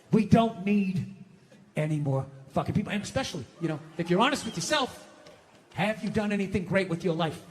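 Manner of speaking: deep, ominous aside; low menacing aside. Acted. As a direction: drop the voice to a low doom-laden register. Sudden low growly aside.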